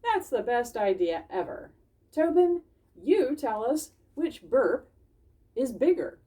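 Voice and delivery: bubbling over with a great idea; excited Bismarck. Acted. Bismarck eagerly asking Tobin to judge burps. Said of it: "Bismarck said".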